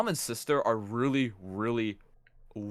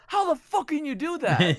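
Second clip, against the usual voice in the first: incredulous; 5 dB louder than usual. Retold or imitated. Amazed at family guessing ethnicities.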